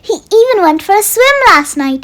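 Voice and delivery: excited postcard. Acted. Herman's cheerful postcard read aloud.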